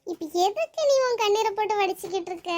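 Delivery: fed-up, fussing rebuke; exasperated scolding. Acted. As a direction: scold a tearful friend, pitch jumping up mid-line. Scolding a crying friend. (கண்டிக்கும் தொனி)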